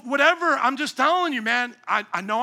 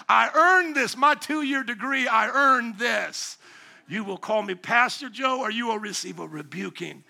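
mock self-important pastor. Mocking his younger self's pride.

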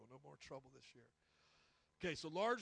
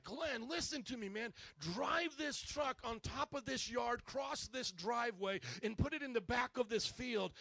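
insistent order; 5 semitones higher than usual. Retold or imitated. Retold order in a quarrel.

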